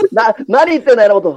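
Toshi-chan impression. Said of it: "似てる。".

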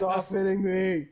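slow, laughing mock whine; laughing protest. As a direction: whine playfully through laughter.

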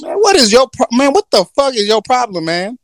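hammed-up angry genie shout; outraged genie. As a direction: yell at the man who freed you. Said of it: "He gonna be like".

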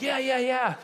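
mock eye-roll yeahs. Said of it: "they're like".

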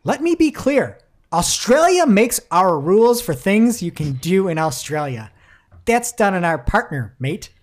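booming mock Australian leader, mate; Scott Morrison quote. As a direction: ham up a defiant politician laying down the law. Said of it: "He said".

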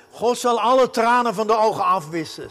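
solemn scripture reading. Acted.

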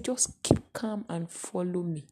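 gentle whisper of the shepherd; soft reassuring shepherd. Acted. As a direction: soothe the frightened flock. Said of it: "And he said".

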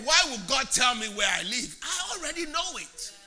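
exasperated shout. Real, not acted. Preacher scoffs at a prophet revealing addresses, shouting. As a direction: throw it out loud in disbelief.

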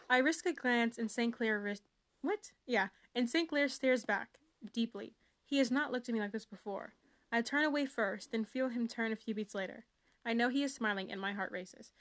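lightly dramatic first-person reading; story reading. Acted. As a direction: read it like a swoony teen novel. Continues reading book sample.

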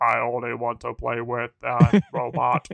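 flat mechanical robot voice. Pretend. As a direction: speak like a machine, no feeling. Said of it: "can you say that in a robot voice?".

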